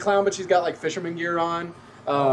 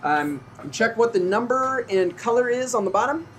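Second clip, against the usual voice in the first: clown game host; 4 semitones higher than usual. Acted. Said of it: "And she's like".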